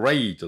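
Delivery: "rate" with a held English R; careful English R. Shown as a demonstration. Teacher warning about the last syllable, careful English R. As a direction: round into a clear R to start "rate". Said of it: "R、rateだから気をつけてね".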